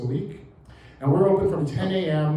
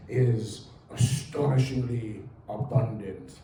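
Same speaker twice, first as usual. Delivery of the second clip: slow, hushed British nature documentary narration; David Attenborough impression; 2 semitones lower than usual. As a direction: read it like a wildlife documentary, slow and awed. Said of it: "in my best David Attenborough voice".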